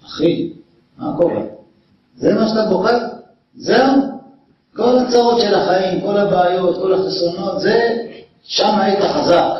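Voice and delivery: mock a friend for crying over beauty; incredulous scolding. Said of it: "שרבי יוחנן יגיד לו".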